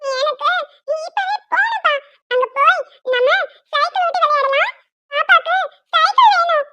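put-on whiny little-child pleading in short bursts; childish insistence. Little girl begs father for the park, whining insistently. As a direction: plead stubbornly like a small child. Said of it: "எங்கேயாவது போகணும்னு அடம் பிடிச்சிட்டே இருக்கா".

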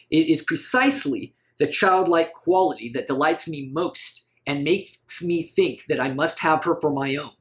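a hint of dramatic read-aloud; Genji. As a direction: read the quote as an earnest, pleading suitor. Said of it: "That's Genji talking about a little girl".

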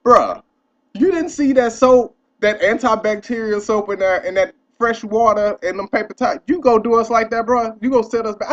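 indignant scolding. Retold or imitated. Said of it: "waiting for him to look back and say".

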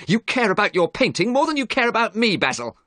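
high-pitched, heated outcry; acted shout. A narrator's reading. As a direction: cry out in protest, pitched high. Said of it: "he shouted".

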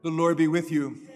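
ringing out in a big church; greeting that echoes through the nave; cathedral echo. Real, not acted. Priest greets congregation, music.

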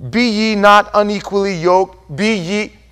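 lightly stilted King James recital; mock old-fashioned scripture. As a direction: quote it in slightly pompous archaic Bible style. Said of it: "who speaks like that nowadays?".

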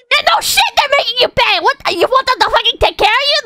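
high-pitched, incredulous scolding; exasperated rant. Real, not acted. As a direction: tear into them in disbelief. Ranting at imagined complainers.

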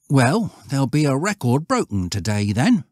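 high, boastful lad; schoolboy Stanley. Acted. Voices Stanley.

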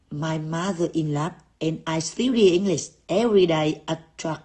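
low-pitched, run the English words together; smooth linked reading. Shown as a demonstration. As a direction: read it out in one gliding, connected line. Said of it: "Đọc ngay luyến láy ghê chưa".

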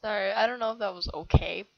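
choppy voice from tapping the throat; vocal cord tapping. Shown as a demonstration. Kid shows a friend's trick, choppy tapped voice. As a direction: tap the throat while talking. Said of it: "You just, like, tap on your vocal cords".

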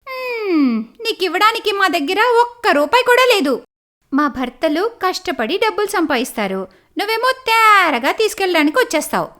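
high, sneering rich sister-in-law; scornful sister-in-law. Acted. Sister-in-law refuses Anita money, high and sneering. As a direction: look down on the poor sister-in-law.

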